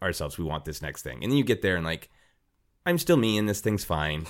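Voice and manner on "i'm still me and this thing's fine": ordinary talk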